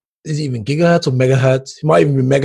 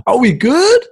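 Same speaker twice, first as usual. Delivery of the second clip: laughing plea; 11 semitones higher, 4 dB louder, slower than usual. Retold or imitated. Mock pleading with laughter.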